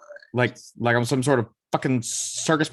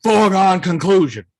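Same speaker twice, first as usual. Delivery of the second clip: louder Boston accent attempt; 6 semitones higher, 7 dB louder than usual. Shown as a demonstration. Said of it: "Listens to Boston accent tape".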